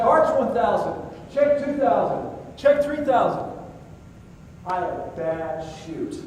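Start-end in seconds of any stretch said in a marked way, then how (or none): 0.0-3.5 the count climbing higher with each step; adrenaline-charged count, higher and higher; panicked cadence. Retold or imitated. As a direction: rattle off the count in free fall. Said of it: "I throw my arms up and say".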